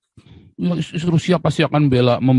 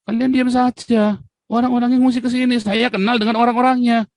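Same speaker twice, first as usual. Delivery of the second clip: indignant; 9 semitones higher than usual. Real, not acted. Scolding ministers, raised pitch.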